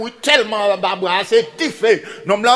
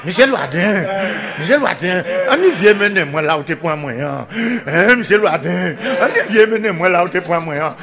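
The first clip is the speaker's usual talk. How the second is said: lightly voiced pig calling out; plaintive pig's call, lightly acted; crying pig. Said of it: "qui a crié". (kochon ka kriyé)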